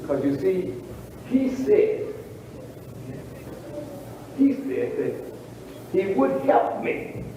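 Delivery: preacher voicing a hopeful believer, soft and low; hopeful inner voice. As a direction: muse to yourself, full of quiet hope.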